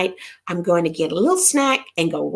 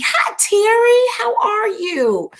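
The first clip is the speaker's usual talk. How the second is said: much higher, louder, slow hello; excited greeting; 12 semitones higher, 3 dB louder, slower than usual. Real, not acted. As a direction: greet Terry with delight.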